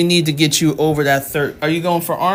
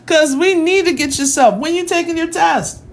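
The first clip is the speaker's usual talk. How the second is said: high, pushed calling out to viewers; yelling at phone; 10 semitones higher than usual. Real, not acted. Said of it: "Why am I yelling at my phone".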